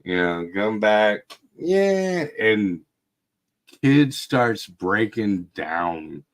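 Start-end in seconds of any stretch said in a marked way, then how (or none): 1.6-2.3 high, drawn-out yeah of delight; whoo on a swing. Retold or imitated. Dad cheering on the swing with his son: a high thrilled yeah. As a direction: cheer as the swing pushes you off.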